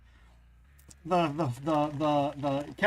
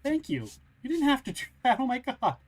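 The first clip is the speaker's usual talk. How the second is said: touched thanks; 5 semitones higher than usual. Real, not acted. Touched by gift.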